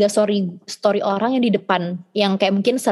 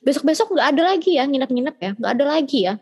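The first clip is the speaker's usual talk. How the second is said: higher, fast mock mom laying down the law; imitating lecturing mom; 6 semitones higher than usual. Mom forbidding daughter's sleepovers, higher mock lecture. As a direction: rattle off mom's lecture, lightly put on. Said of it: "nyokap gue kayak".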